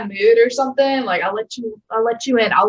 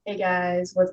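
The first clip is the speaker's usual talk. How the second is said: slow sensual chill; 7 dB quieter, slower than usual. Shown as a demonstration. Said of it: "slow and sensual and just chill".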